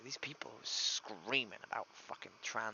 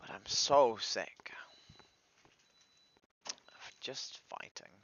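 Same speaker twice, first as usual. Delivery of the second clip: weary whisper, slow; 6 dB louder, much slower than usual. Real, not acted. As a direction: breathe it out, worn down and slow. Exhausted confession after outburst.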